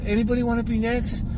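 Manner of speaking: unsure, hesitant mock ask; timid mock call. Imitating an intimidated barber to the room, unsure and hesitant. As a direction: imitate a shy young barber asking weakly. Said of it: "if you use that tone".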